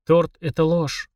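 slow, solemn pronouncement; slowly. Acted. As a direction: say it slowly like a verdict. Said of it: "медленно произнёс Денис". (медленно, торжественно)

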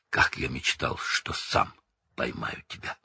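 whispered low, savoring revenge; gloating whisper. A narrator's reading. Snape whispering to Black, gloating whisper. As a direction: breathe it out with cold pleasure. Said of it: "шепнул Снегг Блэку".

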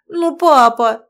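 loud, high daughterly protest; indignant. A narrator's reading. Daughter objects to father's refusal, indignant. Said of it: "возмутилась Сашка".

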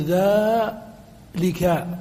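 drawn-out demo word. Shown as a demonstration. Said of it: "وإما بالكاف مع اللام".

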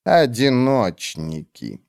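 cold witch. Acted. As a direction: drag each word out, icy and dismissive. Olar slow.

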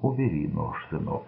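soft and calm, almost hushed; the mother softly calms her son, who holds a knife; calm, soothing. A narrator's reading. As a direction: settle him down gently. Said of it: "спокойно произнесла она".

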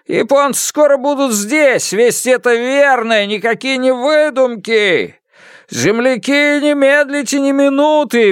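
high, urgent village crier calling out; urgent high call to flee; crier's warning call. Acted. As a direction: shout the warning to the whole village. Town crier calls out warning.

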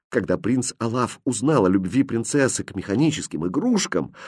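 usual speaking voice

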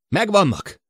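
high, loud cry of discovery; excited shout. A narrator's reading. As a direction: call out the sighting excitedly. Excited sighting called over radio. (izgatott felkiáltás)

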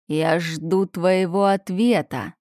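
menacing roar. Acted. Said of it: "Грозный рык".

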